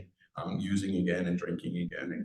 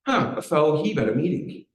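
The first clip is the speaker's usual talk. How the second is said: higher, louder playful exclamation; retold stranger's greeting; 7 semitones higher, 6 dB louder than usual. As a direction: imitate a man hailing one of his own. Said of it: "came up to me and said".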